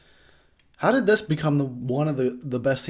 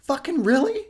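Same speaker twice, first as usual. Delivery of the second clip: fed-up Jason; 13 semitones higher, 6 dB louder than usual. Retold or imitated. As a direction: scold them like a weary parent. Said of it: "He's just like".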